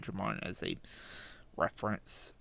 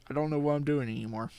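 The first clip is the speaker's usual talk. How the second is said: laughing; 4 semitones higher, 4 dB louder, faster than usual. Real, not acted. Laughing at his own rambling.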